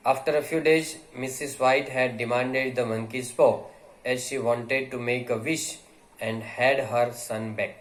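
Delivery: reading the text aloud slowly for students; measured, unhurried read-aloud; slow story reading. Acted. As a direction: read each phrase slowly to the class.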